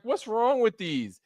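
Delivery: high, slow puzzled kid voice, lightly acted; a child sniffing bad candy, voice up high; kid's disgusted whine. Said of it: "I was like".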